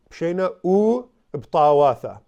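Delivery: 慢慢念 "Pshena u uptawatha"，突出 u; 把 "u" 单独念清楚; slow sounding out. Shown as a demonstration. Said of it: "and then there's a u".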